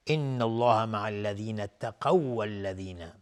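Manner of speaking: slow recitation, waw of اتقوا fused into waw of والذین as one long w; merging identical letters. Shown as a demonstration. Teacher demonstrating the merge, اتقوا flowing into والذین on a doubled waw. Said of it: "پس اینجا ادغام متماثلین هست".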